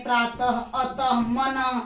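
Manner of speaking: slow "प्रातः, अतः, मनः", each ending in a breathy h; visarga as h. Shown as a demonstration. Teacher demonstrating the visarga to a class, slow and careful. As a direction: draw out each word and let the final ः sound as h. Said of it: "ह की तरह होता है".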